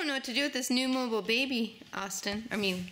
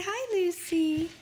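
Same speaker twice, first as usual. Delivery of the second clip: slow modelled greeting; 4 semitones higher, slower than usual. Shown as a demonstration.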